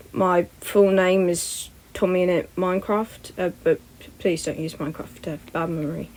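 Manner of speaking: a hint of a flinching boy going quiet; hesitant, dropping to a murmur; uncomfortable, fading.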